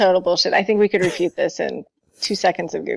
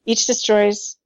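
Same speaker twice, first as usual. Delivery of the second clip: dramatic reading. Acted. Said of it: "Can I read his climax".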